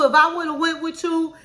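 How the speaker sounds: a hammed-up nag, voice up; clowning, acting a fool. Wife fussing at husband over the wrong answer, mock clowning. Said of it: "she just clowning and acting a fool".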